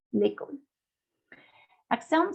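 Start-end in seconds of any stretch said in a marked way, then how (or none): 0.1-0.6 "L'école" with an ordinary E, not opened; normal closed E. Shown as a demonstration. Teacher repeats acute example, "L'école" with plain E. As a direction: keep the first E of "L'école" narrow, lay-KOL. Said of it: "Es como una E normal".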